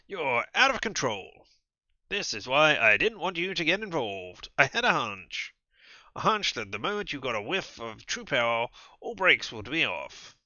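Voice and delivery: loud, slow, stern voice; stern rebuke. Acted. Kadir rebuking Julia for losing control. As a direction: lay down the law slowly.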